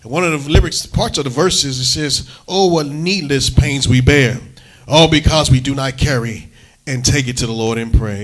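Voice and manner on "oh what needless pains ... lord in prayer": quoting a hymn lyric. Retold or imitated. Pastor reciting a hymn lyric to the church. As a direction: lean into the old hymn line. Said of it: "this old song says".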